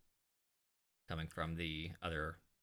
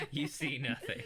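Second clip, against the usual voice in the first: higher, through laughter; laughing; 7 semitones higher, 3 dB louder than usual. Real, not acted. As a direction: say it while laughing along with the table. Table laughing at a botched roll.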